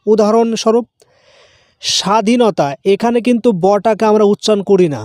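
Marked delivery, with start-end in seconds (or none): 1.8-2.7 স্বাধীনতা said as sowadhinota, no full b; swa sound. Shown as a demonstration. Teacher models স্বাধীনতা for students, b softened to wa. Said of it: "এই বটা উচ্চারিত হয় ওয়ার মতো".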